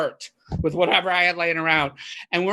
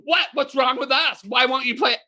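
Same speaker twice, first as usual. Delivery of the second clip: retold nasty complaint; 7 semitones higher than usual. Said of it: "I was getting nasty with them".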